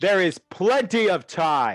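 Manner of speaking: loud booming voice. Narrating a scene, voicing someone calling from across the courtyard in a booming voice. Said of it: "You hear a booming voice".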